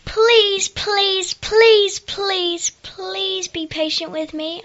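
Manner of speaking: begging. A narrator's reading. Servant begs king for patience, high frantic pleading. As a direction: plead desperately in a very high character voice. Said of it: "She begged the king".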